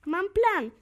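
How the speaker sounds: loud, high burst of delight; joyful shout. A narrator's reading. Tamarka shouting happily to her friend about her plan. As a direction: cry out a sudden great idea. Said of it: "krzyknęła uradowana Tamarka".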